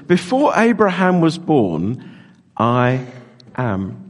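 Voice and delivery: "Before Abraham was born," slowly, then a long pause before "I" and "am"; slow build to a hushed "am"; dramatic pause. Shown as a demonstration. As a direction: hold the pause to make "I am" land. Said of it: "Does anyone know how many years".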